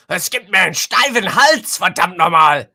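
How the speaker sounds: loud, high German grumble; mock an annoyed German complaining; a German cursing about a stiff neck, loud and high; grumbling German. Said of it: "where the Germans are gonna go".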